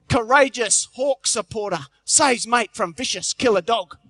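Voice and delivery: slow, grand headline announcement; headline read. Retold or imitated. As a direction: read it like a front page. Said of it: "Big headline reads".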